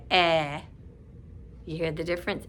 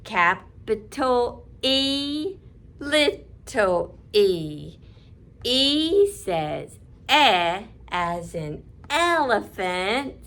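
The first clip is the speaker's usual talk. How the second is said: put-on slower read along with the children; slow unison read; much slower than usual. Shown as a demonstration. Teacher repeating the lines slowly for kids to join. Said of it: "You do it with me".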